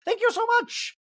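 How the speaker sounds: very high, loud mock waiter; shrill-free high falsetto waiter bit; fussy waiter voice. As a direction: ham up an over-eager server. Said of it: "he's like".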